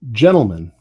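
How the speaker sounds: slow, emphatic narration; game master scene setting. Acted. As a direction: address the players slowly, pausing between phrases.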